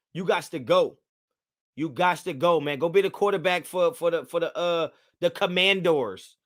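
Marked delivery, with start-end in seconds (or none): 5.2-6.4 COMMANDORS with a drawn-out "doors" ending; playful mispronunciation. Real, not acted. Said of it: "Is it Commandors or Commanders".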